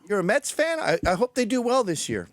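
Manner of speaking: sugary fake well-wishing; sarcastic. The date's man taunts a Mets fan, sarcastic. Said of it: "that was sarcastic".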